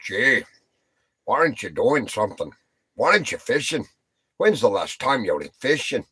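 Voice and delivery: lively imitation of a nagging talking-to; mock nagging, pushy questions; retold scolding. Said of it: "I got a talking to yesterday".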